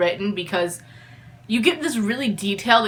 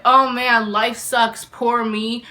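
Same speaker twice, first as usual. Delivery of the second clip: mock self-pity; slower than usual. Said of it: "for four hundred and forty pages".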